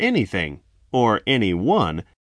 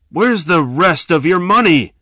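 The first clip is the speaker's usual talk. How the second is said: loud menacing demand; robber's demand; 8 semitones higher, 7 dB louder than usual. A narrator's reading. Robber pressing victim for cash, loud menace. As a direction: press him hard for more.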